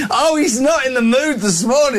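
high and laughing through the line; chuckling playful teasing. Real, not acted. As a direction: tease him while still laughing. Host laughing at co-host.

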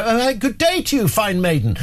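a hint of a courtly knight greeting a lady; mock gallant greeting.

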